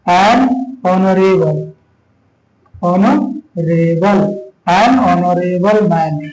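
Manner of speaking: an honorable man very slow, h silent, honorable as ɔnorebəl; slow model reading. Shown as a demonstration. Teacher slowly modelling an honorable man for students. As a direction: stretch each word out for the class. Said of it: "या फिर हो गया honorable".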